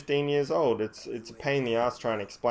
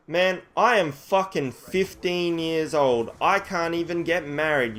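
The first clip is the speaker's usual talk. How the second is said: higher-pitched exasperated retort; indignant protest; 5 semitones higher, 3 dB louder, slower than usual. Retold or imitated. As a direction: protest the absurd accusation, pitch raised. Retells angry protest to policeman.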